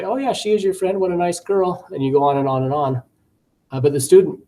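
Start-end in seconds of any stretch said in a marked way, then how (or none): 0.0-1.9 upbeat teacher recast. Shown as a demonstration. Teacher recast demo, raised pitch.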